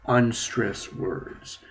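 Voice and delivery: "unstressed words" drawn out slowly; slow announcement. Shown as a demonstration. Teacher slowly announcing the pronunciation topic. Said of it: "pronunciation model".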